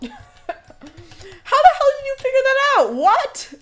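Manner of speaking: high, slow question through laughter; half laugh, half shriek the question; laughing disbelief. Real, not acted. Streamer laughing at chat's discovery, high and slow. Chat figured out the level.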